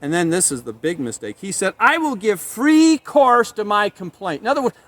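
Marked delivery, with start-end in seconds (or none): 1.8-4.4 slow, louder, pressing each word; defiant Job. Acted. Preacher voicing Job defying God, slow and loud. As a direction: Job refusing to hold anything back.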